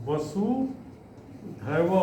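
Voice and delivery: वसुधैव stretched very slowly and quietly; very slow soft repeat. Shown as a demonstration. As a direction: draw out वसुधैव for dictation. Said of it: "slow repeat for students". (वसुधैव बहुत धीरे, धीमी आवाज़ में)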